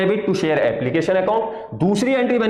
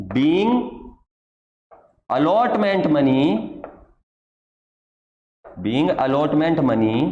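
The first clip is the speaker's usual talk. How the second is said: very slow, with long pauses between phrases; slow dictation; 6 semitones lower, much slower than usual. Shown as a demonstration. Teacher dictating the narration to students copying it down, slow and spaced. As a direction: spell it out phrase by phrase for students to copy. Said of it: "pause करके copy करते रहना".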